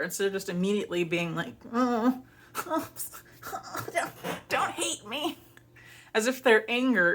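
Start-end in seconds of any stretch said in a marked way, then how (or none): 1.7-5.4 mock pleading. Imitates her fearful pleading.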